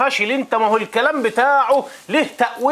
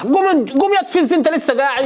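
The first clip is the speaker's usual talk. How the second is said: higher, urgent scolding order; impatient scolding; 4 semitones higher than usual. Acted. Hajj scolding the disciple who is still sitting, impatient. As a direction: get him moving with a raised voice.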